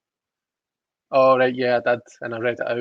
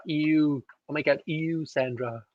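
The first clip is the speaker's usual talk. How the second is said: mock disgusted ew; 3 semitones higher than usual. Host teasing a viewer in a sitcom voice, light mock disgust. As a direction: tease her back with a hammed-up ew. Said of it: "a Schitt's Creek reference".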